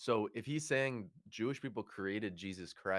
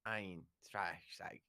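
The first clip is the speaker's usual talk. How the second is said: practising harsh German sounds; harsh German accent. Shown as a demonstration. Friend demonstrating German for the other, harsh accent. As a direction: try out guttural mock German. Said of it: "you have to do German in".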